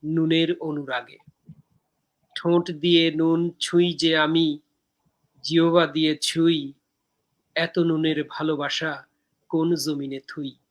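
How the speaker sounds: slow, measured verse with pauses between lines; poem recitation. Acted. Poet reciting own poem from Dehokabyo to viewers, measured recitation.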